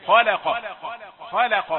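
خلق with heavy خ and ق but a thin lam; light lam. Shown as a demonstration. Teacher showing the correct thin lam in خلق. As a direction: shift the mouth so the lam in خلق stays light. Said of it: "اللام باين إنها إيه؟ مرققة".

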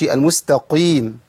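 المستقيم with thick, heavy qi. Shown as a demonstration. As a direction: demonstrate a puffed-up ق in المستقيم. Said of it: "ما ينفعش إن أنا أرفعه".

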